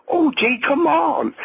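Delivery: high, slow, cracking plea; pleading. A narrator's reading. The friend begging O J to leave, pleading. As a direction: beg him to walk away.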